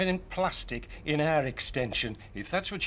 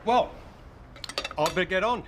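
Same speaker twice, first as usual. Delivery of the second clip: talking with a mouthful of food; mouth full; 3 dB louder, faster than usual. Real, not acted. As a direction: speak around a bite of food. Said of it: "Don't speak with your mouth full".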